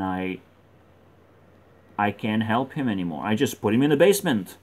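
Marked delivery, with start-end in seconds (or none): 3.2-4.6 quick, matter-of-fact run through the sentence; quick statement. Real, not acted. Storyteller giving up on helping him, quick statement. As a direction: toss it out rapidly in one breath.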